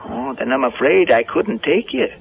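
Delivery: put-on high, rustic old handyman voice; Digger the handyman. Caretaker startled by Linda at the barn door, high rustic voice. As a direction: play a jumpy country caretaker.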